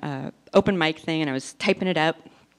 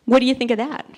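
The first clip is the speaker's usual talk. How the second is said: bright, eager question, louder; hopeful question; 5 semitones higher, 5 dB louder, faster than usual. Retold or imitated. Mom showing off her skirt to daughter, eager. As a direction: show off the new skirt hoping for praise. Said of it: "I said".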